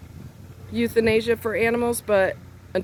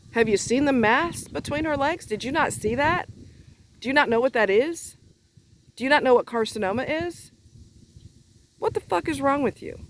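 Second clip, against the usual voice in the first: higher-pitched, incredulous questions; indignation; 5 semitones higher than usual. Real, not acted. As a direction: fire exasperated questions at someone clueless. Outraged rebuke of the friend.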